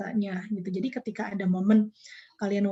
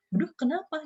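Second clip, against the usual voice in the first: surprised; 5 semitones higher than usual. Retold or imitated. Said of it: "saya kaget juga".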